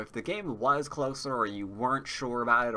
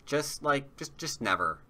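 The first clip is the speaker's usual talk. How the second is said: exasperated plea; 4 semitones higher, 3 dB louder than usual. Pretend. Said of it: "pleading with opponent, drawn out".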